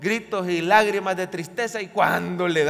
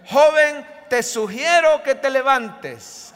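mock timid suggestion; 5 semitones higher, 5 dB louder, slower than usual. Shown as a demonstration. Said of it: "¿Cómo se lo dijo? Se lo dijo con autoridad".

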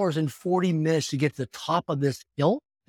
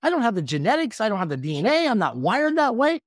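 emphatic refusal; 6 semitones higher than usual. Retold or imitated. Retold refusal to his buddy.

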